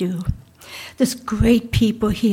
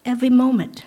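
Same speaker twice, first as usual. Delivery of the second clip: "Every moment" lifted and pressed; emphatic echo; 3 semitones higher, faster than usual. Real, not acted. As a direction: repeat it for emphasis, falling at the end. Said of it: "through every moment and struggle".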